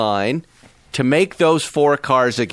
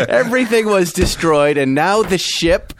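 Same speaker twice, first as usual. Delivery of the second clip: excited; 6 semitones higher than usual. Real, not acted. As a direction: savor each number with glee. Gleeful listing of sunk cars.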